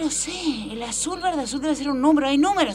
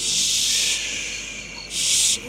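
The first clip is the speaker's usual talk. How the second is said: sharp whispered shh; hushing whisper. Acted. Girl hushing her friend near the school: whispered shh. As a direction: hush your friend while sneaking.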